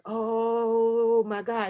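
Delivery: drawn-out, very slow oh my God; slow dismayed groan. Retold or imitated. Staring at the fifty thousand bill, slow dismayed groan. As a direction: sink into dismay. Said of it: "with this motherfucking bill like".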